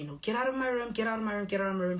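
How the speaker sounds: half-hearted imitation of someone screaming; retold screaming. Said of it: "She's screaming".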